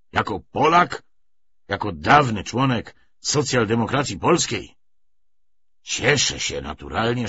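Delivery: deliberate political address with emphatic peaks; lightly voiced party orator. Commissar briefs his comrades on revolutionary tactics, mildly oratorical. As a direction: lean on key words, pausing between phrases.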